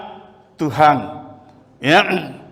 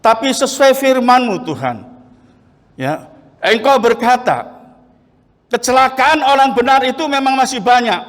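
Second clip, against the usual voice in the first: retold prayer; 3 semitones higher than usual. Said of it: "Saya berdoa bagaimana?".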